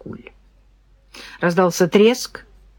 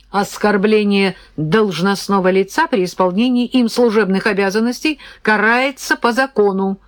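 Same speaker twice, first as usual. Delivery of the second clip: officialese; 2 semitones higher than usual. Acted. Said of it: "перешёл на казённый язык".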